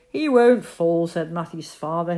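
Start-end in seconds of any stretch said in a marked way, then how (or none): 0.1-1.1 firm. Acted. Father dismissing worry.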